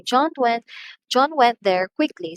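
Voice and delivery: "John" lifted high and loud, "quickly" stressed too. Shown as a demonstration. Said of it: "We also stress that one".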